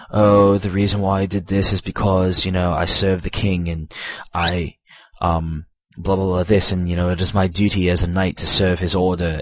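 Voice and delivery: lightly voiced British noble knight; mildly melodramatic British accent for a stoic knight. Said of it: "that's kinda how he sounds".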